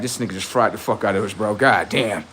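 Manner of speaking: quick, hushed mock commenter voice; imitating defeated fans. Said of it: "they like".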